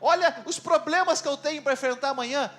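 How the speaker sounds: high, loud, overwrought objections; indignant protest. Acted. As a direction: argue back as an overwhelmed believer. Acts worried believer protesting to Jesus.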